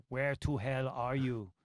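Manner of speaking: slow mock-cross wife's phone demand; imitated scolding wife. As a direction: lightly imitate a wife calling him out. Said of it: "Wife starts calling me".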